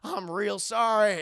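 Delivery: sheepish Goofy. Retold or imitated. Goofy apologizing to his boss again. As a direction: grovel a little. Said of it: "He's like".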